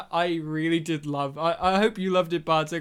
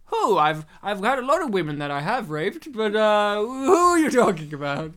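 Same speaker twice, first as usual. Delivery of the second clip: mock Sean Connery; 5 dB louder than usual. Voicing Connery answering.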